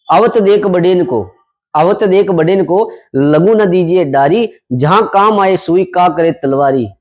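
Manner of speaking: slow, measured verse recital; poem recitation. Shown as a demonstration. Teacher reciting a couplet to students, slow and measured. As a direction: recite the couplet slowly for the class. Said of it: "कवि ने लिखा है कि".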